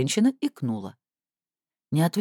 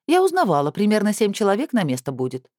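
much higher, louder informed woman; fussy woman; 6 semitones higher, 3 dB louder than usual. A narrator's reading. Woman nearby shares what she found out. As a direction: announce it as insider news.

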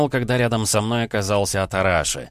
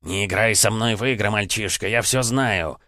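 furious; 2 semitones higher than usual. Acted. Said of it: "взъярился императорский птиц".

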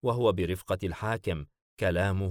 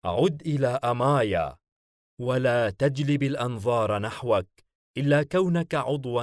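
higher, declamatory voice giving orders; commanding ruler; 4 semitones higher than usual. Acted. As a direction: issue orders to your agent as their master. (حاكم يصدر أوامره)

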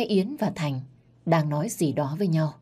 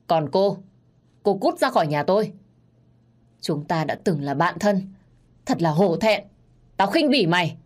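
louder, contemptuous outburst; furious order; 2 semitones higher, 4 dB louder than usual. Acted. Betrayed wife ordering her friend out, furious. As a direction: throw her out with disgust.

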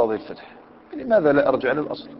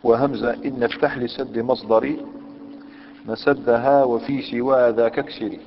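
recited verse; slower than usual. Shown as a demonstration. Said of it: "قال".

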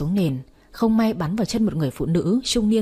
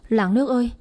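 calling for help; 3 semitones higher, faster than usual. Acted. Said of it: "tôi la lên".

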